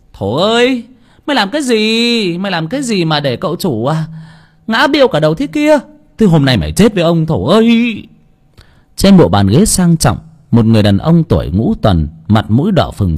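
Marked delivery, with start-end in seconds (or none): 0.1-8.1 high, fast furious shout; furious yelling. Acted. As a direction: yell at the servant boy in rage. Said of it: "người đàn ông quát lên". (ông chủ quát mắng thằng Thổ giận dữ)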